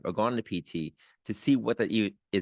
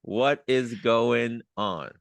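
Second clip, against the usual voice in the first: excited greeting; 2 semitones higher, 3 dB louder, much slower than usual. Real, not acted. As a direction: draw out the greeting with delight. Host's excited greeting to guest.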